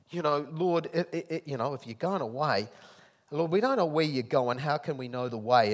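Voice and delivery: Thomas called out loud and high; a disciple pleading with his Lord; loud anxious disciple. Retold or imitated. Thomas voiced asking Jesus.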